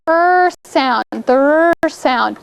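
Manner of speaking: the "er" of "er sound" drawn out slowly; questioning the class, slowly; sound stressed. Shown as a demonstration. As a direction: stretch the "er" so they hear it. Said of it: "what letter makes the".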